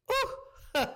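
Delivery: high delighted ooh; a sudden high gasp of delight; surprised ooh. Real, not acted. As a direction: react like you just saw it. Reacting to next clip.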